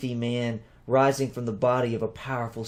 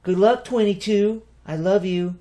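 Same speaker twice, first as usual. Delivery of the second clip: sincere farewell; 8 semitones higher, 6 dB louder than usual. A narrator's reading. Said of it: "Sincere concern appeared".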